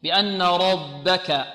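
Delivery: slow recited بأن ربك with held nasal n; light b in ربك after a heavy r; measured recitation. Shown as a demonstration. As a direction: draw out the doubled n in بأن ربك. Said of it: "والباء مرققة".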